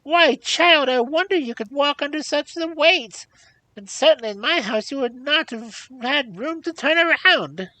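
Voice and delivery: very high, loud crone exclamations; exclaiming old hag. A narrator's reading. Old hag seizing the rich robe, exclaiming. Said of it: "with many exclamations".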